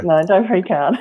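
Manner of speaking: laughing through the words; chuckling reassurance. Real, not acted.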